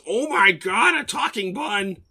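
shocked hare. Acted. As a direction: gasp at a talking bun. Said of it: "what the hare actually said was".

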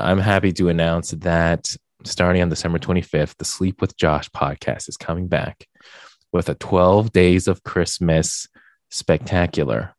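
mild announcer read, slowing towards the big name; lightly put-on promo delivery; commercial voice. Podcast host announcing his show's comeback, in commercial voice. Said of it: "going into my commercial voice".

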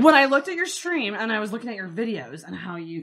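soft, gushing fan confession; cheesy gushing. Acted. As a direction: gush over them, laying it on. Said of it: "we're gonna go cheesy".

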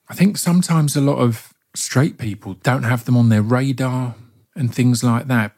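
usual speaking voice

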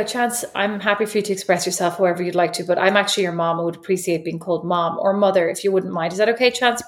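lightly acted, reasonable mum request; over-polite parent. Mum asking Chance not to call her bruh, over-polite. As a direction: politely plead with your child, evenly and a touch low. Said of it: "I don't say it like that".

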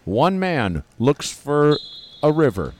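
slow dramatic trailer narration; booming trailer announcer, slow; movie trailer voice. Pretend.

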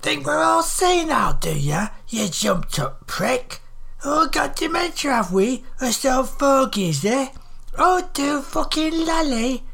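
put-on high-pitched ranting northern old woman; angry volley. A narrator's reading. Livid old woman berates a southerner for mocking them, angry volley. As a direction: fire off accusations in a high, indignant voice. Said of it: "she fired off another volley".

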